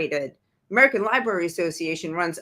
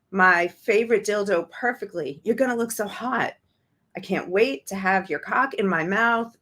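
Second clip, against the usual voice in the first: read aloud; 3 semitones higher than usual. Acted. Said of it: "It's a text exchange".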